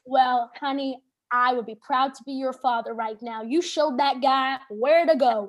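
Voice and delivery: put-on Southern bouncer, slowing at the end; Southern accent. Bouncer praising her like a father, Southern accent. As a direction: imitate a proud Southern dad. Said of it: "I don't know why he's Southern".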